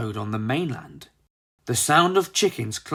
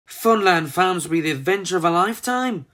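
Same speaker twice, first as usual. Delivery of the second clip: excited; 4 semitones higher, faster than usual. Acted. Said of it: "said Frizzle excitedly".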